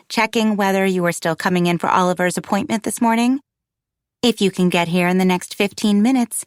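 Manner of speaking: a hint of a clinic caller's businesslike voice; lightly voiced receptionist, businesslike. Receptionist phoning a mother about an appointment, lightly businesslike. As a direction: lightly act a receptionist checking in.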